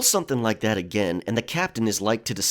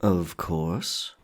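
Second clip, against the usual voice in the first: slowly; 6 semitones lower than usual. A narrator's reading. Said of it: "he said slowly".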